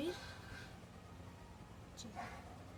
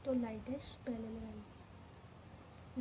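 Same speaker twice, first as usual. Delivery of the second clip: slow reminder; 9 dB quieter, slower than usual. Shown as a demonstration. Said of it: "ध्यान रहे".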